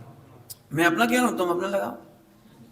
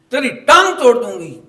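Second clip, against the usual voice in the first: loud, higher mock threat; mother's threat; 8 semitones higher, 12 dB louder than usual. Mother threatening the child loudly before guests. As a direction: snap at the child. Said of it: "बच्चे को फिर डांट पड़ी".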